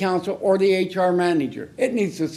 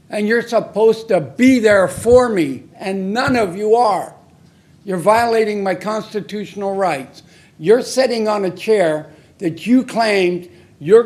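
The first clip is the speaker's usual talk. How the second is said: raised, heated complaint to the council; louder now, venting real anger; angry; 4 dB louder than usual. Real, not acted. Citizen berating city council, heated and loud.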